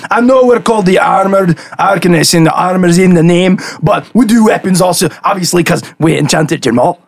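chatty, lightly put-on shopkeeper voice; lightly voiced enchanter merchant. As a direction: lightly play a proud tradesman pitching his services. Game master voices enchanter merchant.

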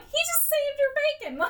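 mock-outraged exclamation; incredulous outburst. Real, not acted. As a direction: protest like it's outrageous. Outraged at Justice League.

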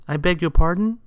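high, loud, astonished question; taken aback. A narrator's reading. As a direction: ask in high-pitched disbelief. Mister Happy reacts to rudeness.

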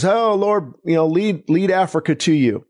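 mock vague pleading, pitch up on oh; a lofty, unfocused prayer, lightly mocked; high-flown general prayer done as a mild parody. Shown as a demonstration. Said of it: "and versus".

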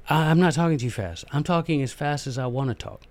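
softly haughty retort. Real, not acted. Speaker answering a complaint about his speed, haughty. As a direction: brush off the complaint with quiet haughtiness. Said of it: "that sounded really haughty".

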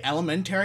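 "Elementary" said with a full "tary"; outsider's puzzled query. Acted. Acting someone outside of Michigan, puzzled at "Elementary". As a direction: question "Elementary", sounding out "tary". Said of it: "someone outside of Michigan's like".

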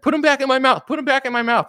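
put-on high, loud babyish demand; whiny baby fan. Fan like a baby demanding his binky back, high whiny voice. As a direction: whine like a toddler wanting the binky.

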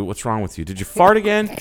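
high, loud teasing mock voice; hammed-up busybody nagging about farting; mock accusing voice. Host spoofs someone scolding him about his bowels, shrill.

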